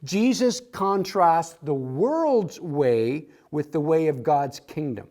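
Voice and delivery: very slow, dictating the point; slow read of the outline point. Shown as a demonstration. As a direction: spell it out slowly for notes. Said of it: "As your outline says".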